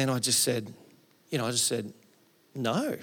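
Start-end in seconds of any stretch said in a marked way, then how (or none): 2.5-3.0 slow, laughing no way; laughing refusal. Retold or imitated. Retelling to the congregation, a laughing refusal of the job. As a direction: laugh off the offer as you refuse it.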